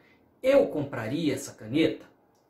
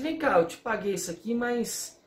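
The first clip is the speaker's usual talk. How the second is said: complaining to the seller; 2 semitones higher, faster than usual. Retold or imitated. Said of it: "falo assim".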